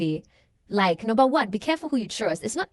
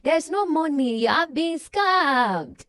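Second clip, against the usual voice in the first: raised, higher mock yell, slowing on the last words; playing the scammer who snaps back; mock shout; 4 semitones higher, slower than usual. Retelling how the woman shouts at Michael, a raised mock yell. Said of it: "the woman just shouts at him like".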